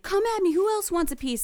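high-pitched mock yell, taunting; retold screaming. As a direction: challenge all comers, half-shouted. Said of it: "screaming at the corner".

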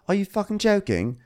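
high mock outburst; mock outraged Tom. Host voicing Tom yelling at Ashley, high outrage. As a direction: blurt it in disbelief.

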